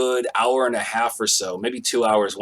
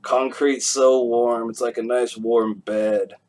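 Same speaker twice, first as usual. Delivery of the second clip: put-on drunk contentment; slower than usual. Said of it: "I'm like".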